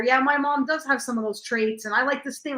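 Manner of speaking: light, chirpy imitation of a fan; lighthearted chatter. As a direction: chat breezily like an audience member. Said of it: "I have lighthearted conversations with people".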